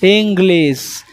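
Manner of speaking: ইংলিশ with a clear g and a sharp s ending, slowly; ইংলিশ said slowly as ing-glis; correct pronunciation. Shown as a demonstration. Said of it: "কি নাম উচ্চারণটা?".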